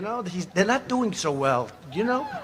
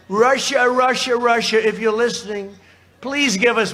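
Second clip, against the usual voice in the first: sarcastic appeal. Retold or imitated. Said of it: "That was sarcastic".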